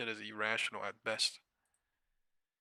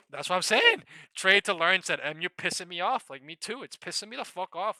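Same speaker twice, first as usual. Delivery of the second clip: much higher and louder, venting; riled up; 8 semitones higher, 10 dB louder than usual. Real, not acted. Agreeing with a viewer about the stock, riled and loud. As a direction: let the frustration burst out.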